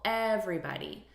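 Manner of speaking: "everybody" with the first syllable EV punched; stress on EV. Shown as a demonstration. Teacher showing syllable stress to learners, first syllable punched. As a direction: hit EV in "everybody", rest light. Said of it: "stressing the first syllable".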